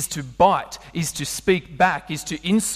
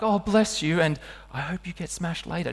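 1 mock two-faced blessing; 3 dB quieter than usual. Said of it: "You can't be like".

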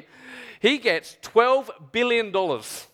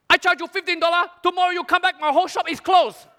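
high-pitched, hammed-up haggling seller; theatrical stallholder protest; protesting shopkeeper; 10 semitones higher, 4 dB louder than usual. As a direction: plead ruin in a raised market-seller voice. Seller protests low offer theatrically.

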